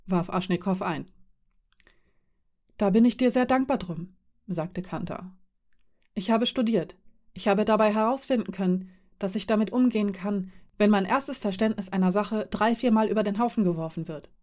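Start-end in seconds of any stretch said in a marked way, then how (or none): 2.8-14.3 Kanta, eager and reassuring. Acted. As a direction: reassure him you'll ask later, in Kanta's lighter voice. Kanta voiced by narrator. (Kanta, eifrig beruhigend, leicht höher)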